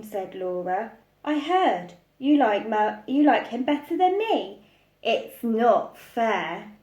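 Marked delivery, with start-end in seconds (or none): 1.2-6.7 lightly voiced sulky girl; sulky child. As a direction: complain like a jealous child. Jealous child complaining to mum.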